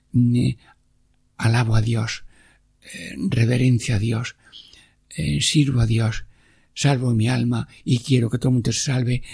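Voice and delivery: a hushed, earnest radio prayer. Acted. Preacher praying to the Lord for the radio listeners, earnest and hushed.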